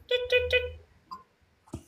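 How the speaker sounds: high, drawn-out toots; mimicked phone dialling. Streamer pretends to phone mom, high mimicked dial tones. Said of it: "I need to phone my mom".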